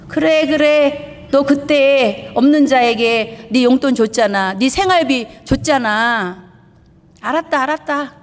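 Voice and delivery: put-on a fatherly God soothing his child; mock voice of God. God kindly answering a struggling believer, indulgent.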